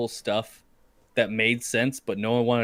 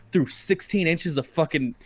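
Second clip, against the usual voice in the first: slow, higher, mock incredulous; sarcastic retort; 5 semitones higher, 4 dB louder, slower than usual. Tanning soldier mocking worried comrade, slow sarcastic retort. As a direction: drag it out slowly, like it's obvious.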